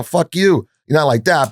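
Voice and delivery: shouting back in mock anger; mock yell. To the man calling him bad man, a retold yell. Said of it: "I start yelling at him".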